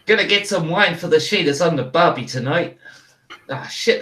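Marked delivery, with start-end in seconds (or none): 0.1-2.8 put-on Aussie accent drifting into Cockney; "barbie" line in a slipping Aussie voice; Australian accent. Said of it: "it's Cockney".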